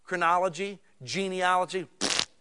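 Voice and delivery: lightly mocking, scoffing pfft at the list; dismissive bored reader. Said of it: "'cause they're like".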